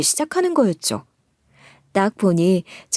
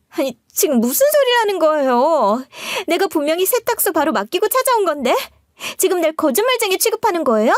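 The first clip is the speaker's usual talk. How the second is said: higher, fast, outraged protest; trembling indignation; 7 semitones higher than usual. Acted. Sister-in-law protesting the accusation, shrill with indignation. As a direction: bristle as if called a liar. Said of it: "파르르 떨면서 저한테 따지고 들더라고요".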